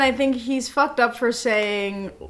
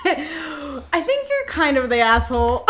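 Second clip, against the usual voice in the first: laughing; 3 semitones higher, slower than usual. Real, not acted. Laughing verdict on the post.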